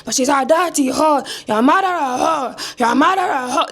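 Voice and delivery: high, drawn-out mock African accent; exaggerated African-accented granddad impression; fake African accent. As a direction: stretch the insult in a put-on African accent. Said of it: "fake African accent".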